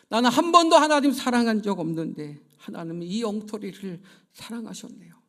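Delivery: loud, pleading confession that swells and drops; tearful prayer. Retold or imitated. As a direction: beg forgiveness, half in tears. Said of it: "울기 시작하는 거예요".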